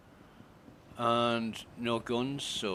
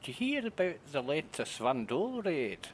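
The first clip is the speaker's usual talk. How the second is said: put-on light Scottish accent, slightly raised pitch; 6 semitones higher than usual. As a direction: echo the line in a Scottish accent. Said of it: "that was definitely a Scottish accent".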